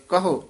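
ਕਹੋ said quickly, ending towards a short u. Shown as a demonstration. Teacher showing aunkar, ਕਹੋ with short ending. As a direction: clip the final vowel of ਕਹੋ. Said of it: "ਛੇਤੀ ਬੋਲਾਂਗੇ ਤਾਂ ਔਂਕੜ ਲੱਗ ਜਾਏਗਾ".

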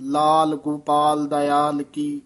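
slow, ਲਾਲ cut short with no trailing vowel; halant on ਲਾਲ. Shown as a demonstration. Teacher demonstrates ਲਾਲ with halant, slow and careful. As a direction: end ਲਾਲ clean on the l, slowly. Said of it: "ਇਹ ਹਲੰਤ ਲਾਉਣਾ".

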